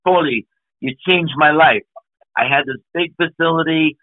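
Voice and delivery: put-on a grateful New Zealand friend quoted in his accent. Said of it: "in that New Zealand accent".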